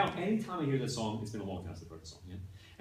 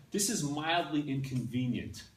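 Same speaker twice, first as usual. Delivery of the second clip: calm; slower than usual. Retold or imitated. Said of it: "He was calm".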